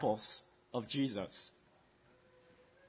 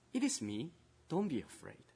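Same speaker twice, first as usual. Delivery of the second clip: comforting; 7 dB quieter than usual. Acted. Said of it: "Jesus cares for you".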